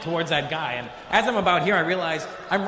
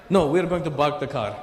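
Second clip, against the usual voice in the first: imitated Lebanese English, P turned to B; mock Lebanese accent with a hard rolled delivery. Friend explains parking the car, Lebanese accent.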